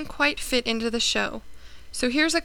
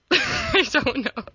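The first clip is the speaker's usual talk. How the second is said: laughing. Real, not acted. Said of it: "I can't do this when I'm laughing".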